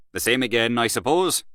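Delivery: casual offer to a friend; hearty friendly question. Acted. Asks friend, same words as 90.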